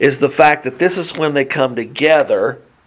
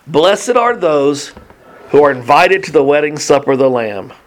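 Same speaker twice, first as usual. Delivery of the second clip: scripture reading. A narrator's reading. Angel telling John what to write, measured scripture proclamation. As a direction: draw out the blessing, then read on steadily.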